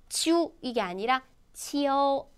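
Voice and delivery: 지우 wrong, then 지오 with a clear o; pronunciation contrast. Shown as a demonstration. 학생들에게 오 발음을 살려 대조하는 선생님. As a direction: set 지우 against 지오, the o brought out. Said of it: "오 발음 살리셔야 돼요".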